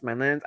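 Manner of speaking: "Lens" said like "lins", rising; quick questioning retry of "Lens" with a short i; unsure pronunciation. Shown as a demonstration. Vlogger retrying a French name, "Lens" like "lins", unsure. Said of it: "Imma get it right".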